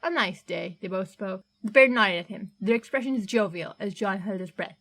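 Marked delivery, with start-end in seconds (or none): 0.0-0.8 a hearty Cockney delivery man, a touch gruff; Cockney accent. Acted. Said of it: "distinctly Cockney".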